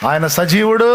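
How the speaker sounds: rousing proclamation. Real, not acted. Preacher repeats his answer to the congregation, loud and rousing.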